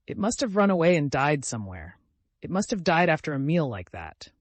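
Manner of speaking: pitiless. Acted. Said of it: "Kolya pronounced pitilessly".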